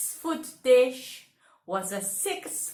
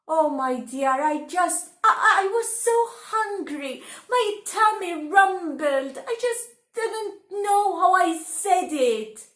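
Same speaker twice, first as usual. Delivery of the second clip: higher, rushed pleading excuse; pleading husband; 5 semitones higher, 3 dB louder, faster than usual. Acted. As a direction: stammer an excuse.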